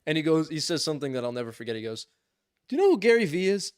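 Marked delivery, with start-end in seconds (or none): 2.7-3.7 quick, higher mock neighbor voice, a bit louder; imitating the neighbor. Neighbor asks the narrator about Gary Vee, quick, higher mock voice. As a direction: toss the question out fast in a put-on voice. Neighbor's pointed question, retold.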